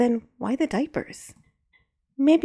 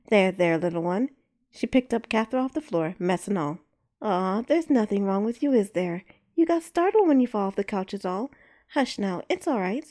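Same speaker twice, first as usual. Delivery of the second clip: gentle calming coo; soothing. Acted. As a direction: hush a startled baby. Soothing a baby.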